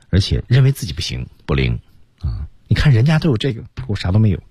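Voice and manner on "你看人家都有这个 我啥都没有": mildly envious, higher-pitched complaint; a touch of self-pitying envy. Acted. Co-teacher voicing Paul who feels inadequate, mildly envious. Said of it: "羡慕啊".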